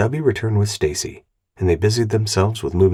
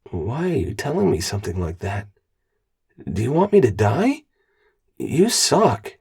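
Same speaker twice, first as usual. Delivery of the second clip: put-on whiny young soldier; 4 semitones higher than usual. Soldier Lucky complains, rising whine.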